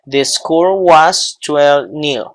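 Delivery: "the score was twelve nil" at half pace; slow model sentence. Shown as a demonstration. Teacher models a football score for students, slow demonstration. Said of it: "yo digo".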